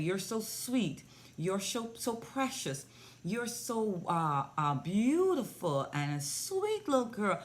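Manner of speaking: put-on lightly lilting, doting baby talk; gentle cooing praise. Repeating praise to a pouting girl on video call, gentle coo. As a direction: coax a little one with tender praise.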